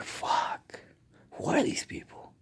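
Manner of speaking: breathy rushed whisper under the breath; whispered curse. Retold or imitated. Patient reacting to feeding tube plan, whispered disgust. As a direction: mutter it so the staff can't hear. Inner reaction to hospital staff.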